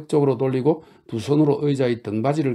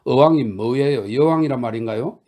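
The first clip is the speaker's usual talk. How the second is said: mocking interruption; 2 semitones higher, 5 dB louder than usual. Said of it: "그루셴카가 말을 가로막았다".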